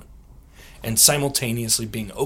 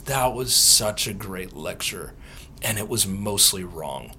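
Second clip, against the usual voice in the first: sweet gentle verdict; 5 semitones lower, 4 dB quieter than usual. Retold or imitated. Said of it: "he looks at me so sweet".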